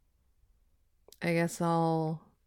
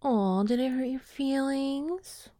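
sarcastic; 3 semitones higher, slower than usual. Acted. Mocking after breakup.

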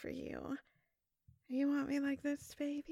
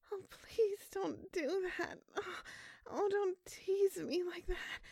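whimper; 3 semitones higher than usual. Acted. Lover teasing her.

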